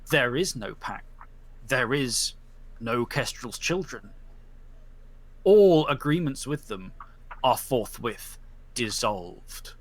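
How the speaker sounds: slow, weighty sentencing; solemn judge's verdict. Acted. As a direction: pronounce judgement on the pack. Judge dissolves agreements.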